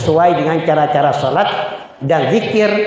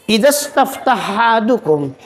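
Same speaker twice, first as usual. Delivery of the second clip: reciting hadith; 4 semitones higher, slower than usual. Shown as a demonstration. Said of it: "Kata Nabi".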